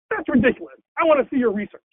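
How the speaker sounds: mock-indignant challenge; scoffing fox. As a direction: scoff and demand proof, lightly acted. Fox scoffs at rabbit's claim.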